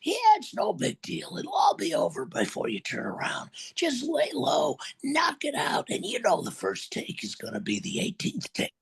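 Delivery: high, strained whisper of a damaged voice; an agent's ruined rasp talking his client down; Don Pitts impression. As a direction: soothe a furious client in a wrecked, breathy whisper. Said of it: "this is the best impression in Hollywood of Don".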